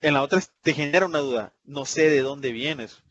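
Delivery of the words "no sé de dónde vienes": slow indirect statement. Shown as a demonstration. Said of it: "es una forma muy indirecta".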